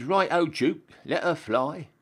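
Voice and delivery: a soldier calling out just before firing the cannon; call to fire. Acted. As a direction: sing out the order to fire.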